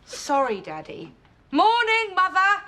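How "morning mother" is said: a light put-on British accent greeting; breezy British "Morning, Mother". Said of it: "tone down that British accent".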